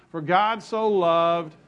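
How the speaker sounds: slow, measured lead for others to join; deliberate congregational prompt, drawn out; leading a recitation. Shown as a demonstration. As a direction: spell it out slowly, word by word. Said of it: "Say it with me".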